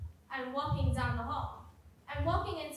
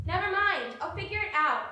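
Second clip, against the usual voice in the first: much louder and higher, curt; angry dismissal; 5 semitones higher, 6 dB louder than usual. Acted. Walking away from a friend in anger. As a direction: shut the conversation down loudly. Storming off from argument.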